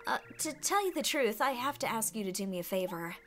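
high-pitched, theatrical damsel voice; self-dramatizing flower maiden, pitched high; fragile flower damsel. Acted. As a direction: plead sweetly as a delicate flower. Voices flower Lily meeting plumber.

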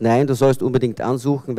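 normal talking voice

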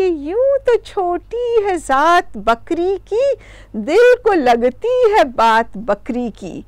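slow, drawn-out poetic couplet; verse recitation. Acted. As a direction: recite it with stretched, lilting line endings.

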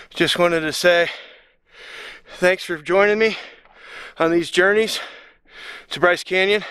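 panting between short phrases; out of breath. Real, not acted. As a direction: talk while catching your breath after a hike. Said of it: "I know I'm out of breath".

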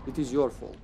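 put-on light Serbian accent, blaming. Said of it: "I will speak with a Serbian accent now".

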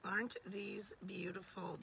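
soft admiring whisper; whispering over the pretty pieces. Real, not acted. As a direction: breathe it out in awe. Whispered while showing jewelry.

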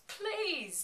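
high, loud, drawn-out cry; mock desperate plea. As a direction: imitate a desperate outburst. Retold desperate cry as hearts stop.

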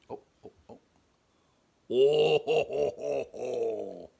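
breathy laugh bursting to loud ho ho. Real, not acted. Cracking up after the silly animal voice, laughing. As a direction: laugh helplessly at herself.

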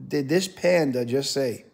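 drawn-out, very slow incredulous question; stunned disbelief. Retold or imitated. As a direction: let the disbelief stretch each word. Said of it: "And I said".

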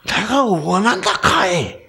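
put-on casual Gyeongsang accent Jesus; Gyeongsang dialect. Preacher imagines Jesus speaking Gyeongsang dialect, casual and warm. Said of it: "예수님이 경상도 사람이었으면".

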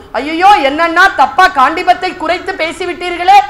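loud, high-pitched lament; storyteller's anguished outpouring; acted wailing. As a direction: cry out in dramatised distress. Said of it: "கதறான்".

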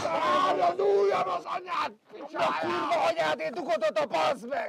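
high, shouted cursing at a clumsy coworker; screaming abuse at a workmate over a botched job; furious yell. Real, not acted. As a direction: let it rip, pitch way up. Workmate yelling during a botched repair.

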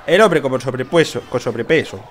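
a light imitation of Brian's Argentine accent; barely put-on Argentine accent. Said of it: "como diría nuestro amigo Brian con su acento".

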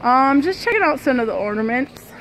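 talking through a face mask; muffled by a mask over the mouth. Real, not acted. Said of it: "I hope you can hear me through the mask".

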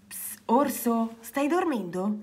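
soft, hushed bedtime question; secretive whisper. A narrator's reading. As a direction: whisper carefully to someone maybe asleep. Secretly checking if Bear sleeps.

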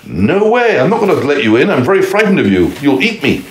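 high, scared piggy voice; frightened little pig. A narrator's reading. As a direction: squeal your refusal through the door.

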